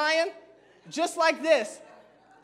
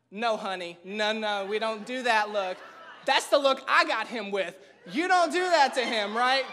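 sassy warning; 4 semitones lower than usual. Retold or imitated. Warning a woman off husband.

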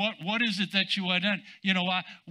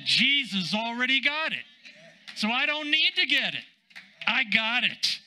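higher, emphatic preacher's retort; retold bold declaration; 5 semitones higher than usual. Minister answering the devil about his healing, retold bold declaration. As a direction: declare it with raised, punchy certainty.

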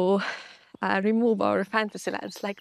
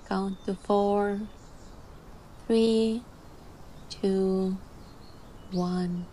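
calm voice. Real, not acted. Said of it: "I'm gonna dive into my calm voice now".

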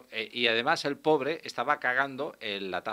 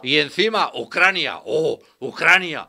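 mock alarmist; 3 semitones higher, 4 dB louder than usual. Parodies a fearmonger.

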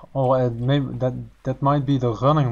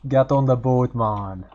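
put-on Jamaican accent; slower than usual. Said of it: "terrible Jamaican accents".

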